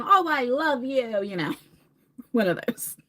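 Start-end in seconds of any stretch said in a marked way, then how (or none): 0.0-1.2 slow, sappy mock affection; lightly imitating her friendly beer self; friendly drunk gush. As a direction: gush like a happy tipsy friend. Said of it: "very friendly and happy".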